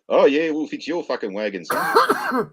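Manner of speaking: mock menacing threat, pitch shooting up on son; tough guy voice. ISP voicing a threat at the customer, mock menacing. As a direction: growl a threat like a hard man. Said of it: "and is like".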